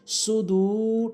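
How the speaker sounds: সুদু with a long held final u; elongation. Shown as a demonstration. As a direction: stretch out the end of সুদু. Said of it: "টানতে হবে". (সুদু-র শেষে টেনে)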